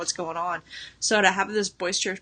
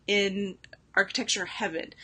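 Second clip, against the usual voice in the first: whispered awe; 3 dB quieter than usual. Real, not acted. Gushing over house description.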